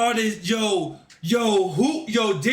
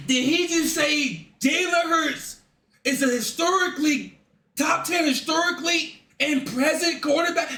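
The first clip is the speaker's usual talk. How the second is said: stunned disbelief; 4 semitones higher than usual. Real, not acted. Outraged at the TV clip.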